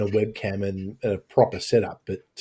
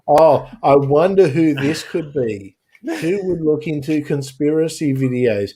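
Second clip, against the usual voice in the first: sarcastic; 3 semitones higher, slower than usual. Real, not acted. Mock wondering, answer obvious.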